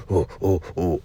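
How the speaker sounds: low short hooting oh oh like a monkey; mock monkey hoots. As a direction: ape a monkey's call, lightly. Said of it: "the noises that you hear monkeys make".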